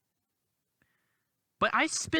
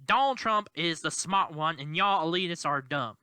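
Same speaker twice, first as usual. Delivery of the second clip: lightly put-on Southern accent, mocking; a hint of a Southern accent, mocking the pundits. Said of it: "I'm gonna use the Southern accent right now".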